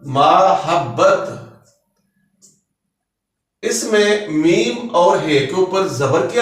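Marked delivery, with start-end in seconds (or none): 0.0-1.4 मोहब्बत drawn out slowly, syllable by syllable; मोहब्बत said slowly with a short a first; careful demo. Shown as a demonstration. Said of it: "ये लफ्ज है मोहब्बत".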